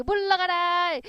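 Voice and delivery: high, drawn-out command to be gone; banishing call. Acted. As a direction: call out to send a ghost off. 귀신을 쫓아내는 외침. (귀신을 내쫓듯 높게 외치며)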